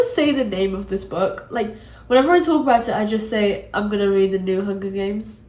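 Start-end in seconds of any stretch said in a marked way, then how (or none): 3.7-5.4 blocked-nose voice; congested. Real, not acted. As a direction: speak through a stuffy nose. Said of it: "I sound really congested".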